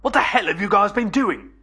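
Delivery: high, loud, demanding shout; shouting over a roar. Acted. Billy to his friends as the monster roars, shouting high and loud. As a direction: yell the question over deafening noise. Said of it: "Billy shouted over its roar".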